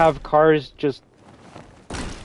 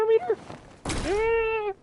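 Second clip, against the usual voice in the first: voice crack; 6 dB quieter, much slower than usual. Real, not acted. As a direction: voice cracks up into a squeak. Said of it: "fucking voice crack".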